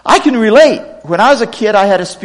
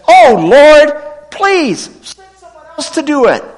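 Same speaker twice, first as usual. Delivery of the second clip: higher, pleading cry to God; pleading Moses; 7 semitones higher, 4 dB louder than usual. Acted. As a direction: beg the Lord to send someone else. Moses begging God to send another.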